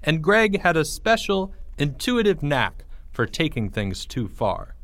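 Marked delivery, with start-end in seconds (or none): none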